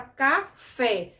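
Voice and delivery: "café" with the weight on fé; stress on last syllable. Shown as a demonstration. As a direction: split "café", landing firmly on the final fé. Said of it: "a sílaba fé é oxítona".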